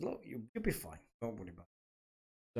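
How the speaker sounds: quietly telling him not to fret; reassuring. Retold or imitated. Reassuring a worried mate in retold talk.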